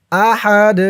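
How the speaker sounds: আহাদ with the final দাল bounced out in a short jolt; echoing qalqala. Shown as a demonstration. Teacher demonstrates the bouncing qalqala letter. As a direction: pop the end of আহাদ. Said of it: "ধাক্কা দিয়ে পড়তে হবে".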